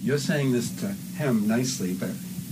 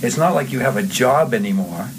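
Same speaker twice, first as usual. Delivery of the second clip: needling, slowing on the final question; taunting mock-innocent question; digging at him; 3 semitones higher than usual. Shown as a demonstration. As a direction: rub it in, voice lifting. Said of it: "giving him digs now".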